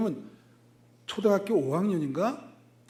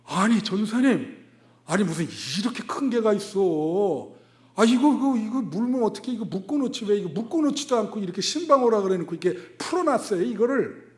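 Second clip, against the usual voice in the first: panicky protest; 3 semitones higher, 4 dB louder than usual. Retold or imitated. Pastor retelling his frightened complaint.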